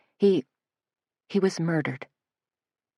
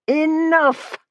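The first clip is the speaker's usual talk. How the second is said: a piercing, much higher shout; shrill shout; 12 semitones higher than usual. A narrator's reading. Enraged leader shrills at Suzanne, piercing. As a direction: shriek it to cut her off. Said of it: "shrilled Elam".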